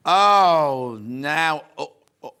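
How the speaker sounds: sharp gasp into a loud oh; gasp of delight. Real, not acted. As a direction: catch your breath at the sight. Sees a fabric she loves.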